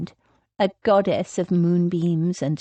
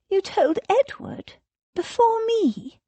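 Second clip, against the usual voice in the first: hurt; 14 semitones higher than usual. A narrator's reading. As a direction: sound betrayed. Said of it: "Her voice sounded hurt".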